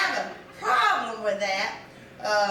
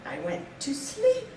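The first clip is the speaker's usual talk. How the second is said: high-pitched, innocent protest; small, high voice of denial; defensive; 9 semitones higher, 3 dB quieter than usual. Retold or imitated. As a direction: squeak out a puzzled defence. Retorting to the wife's question.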